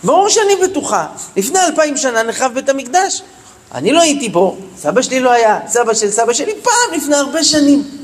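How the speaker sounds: retold astonished protest, pitch jumping on the retort; shocked insistence. Stunned teacher answers the parents' doubt, shocked insistence. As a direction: imitate a teacher baffled at being doubted. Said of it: "הייתה בהלם".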